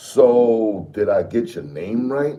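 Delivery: slightly smug, high and slow. Narrator asking Mafdet whether the name was pronounced right, slightly smug. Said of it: "a bit of snugness in my voice".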